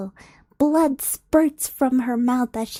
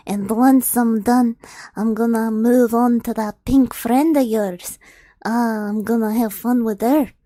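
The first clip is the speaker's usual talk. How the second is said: louder, gloating villain threat; the ogre savoring his cruelty, louder; 3 dB louder than usual. Acted. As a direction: relish the threat like a brute.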